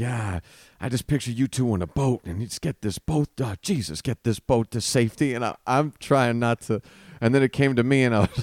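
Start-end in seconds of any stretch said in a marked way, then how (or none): 0.0-5.3 gospel preacher voice calling out. Retelling how a nice kid prayed over them: imitating a black church preacher. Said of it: "he just went black church on this thing".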